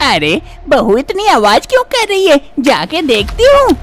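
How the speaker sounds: a fussing mother-in-law calling out. Acted.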